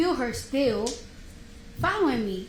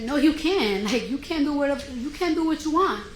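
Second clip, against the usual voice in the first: retold argument; 3 semitones higher, 4 dB louder than usual. Heated retold argument with guard.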